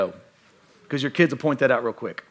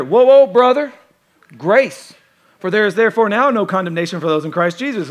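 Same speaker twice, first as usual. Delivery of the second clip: loud, raised-pitch pleading for grace; mock defensive protest; 4 semitones higher, 7 dB louder than usual. Pastor playing a critic who is now criticized, loud mock protest. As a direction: fend off criticism with hammed-up piety.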